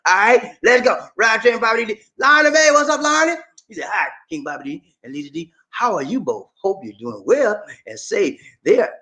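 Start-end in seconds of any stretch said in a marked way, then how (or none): 3.9-8.9 wrong voice. Shown as a demonstration. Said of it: "I'm sorry, wrong voice".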